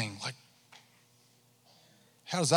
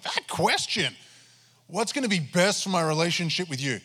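grudging attitude; 5 semitones higher, 3 dB louder than usual. Retold or imitated. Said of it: "I wasn't saying it with the best attitude".

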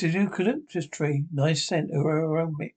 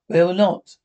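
louder, flat no to the biscuits; firm loud refusal; 7 dB louder than usual. Acted. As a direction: put your foot down hard.

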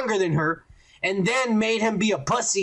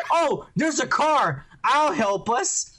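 slow, higher little-girl imitation; Leia; 5 semitones higher, slower than usual. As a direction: lightly play a helpful child princess. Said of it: "ten-year-old Leia's all like".

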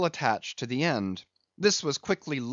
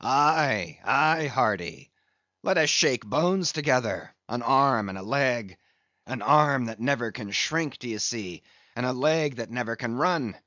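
walrus way. Acted. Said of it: "cried out in his walrus way".

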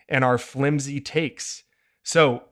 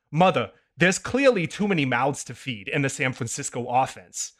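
put-on no fun kid voice. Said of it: "no fun kid voice".

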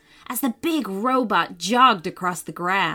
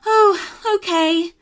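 louder, higher startled okay; flustered; 8 semitones higher, 5 dB louder than usual. A narrator's reading. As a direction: give in, caught off guard. Mum gives in, startled.

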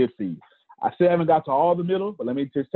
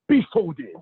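theatrical magician; 3 semitones higher than usual. Acted. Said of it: "I do magician voices".

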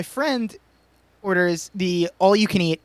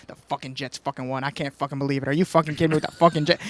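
muttered rage; 5 semitones lower than usual. Retold or imitated. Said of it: "she's just like".

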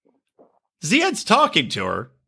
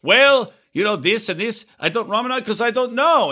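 mild Ziad imitation; 6 semitones higher than usual. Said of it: "talking completely normally".

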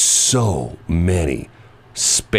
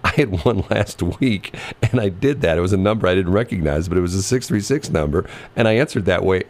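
usual speaking voice

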